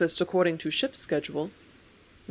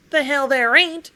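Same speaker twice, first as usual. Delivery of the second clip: much higher and louder, shouted back; loud angry cry; 7 semitones higher, 8 dB louder than usual. Acted. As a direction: yell it right back at him. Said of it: "I cried back at him just as hard and so much louder".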